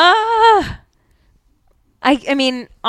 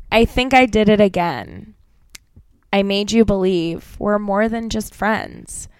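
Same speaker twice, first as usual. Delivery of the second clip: interpretive lyric read; 2 semitones lower, 3 dB quieter than usual. Shown as a demonstration. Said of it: "it's an interpretive read".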